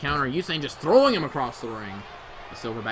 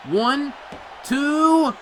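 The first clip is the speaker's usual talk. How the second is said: loud, higher shouted pin count; count yell; 9 semitones higher, 4 dB louder than usual. Real, not acted. Commentator yelling the near-fall count. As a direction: belt out the count as it happens.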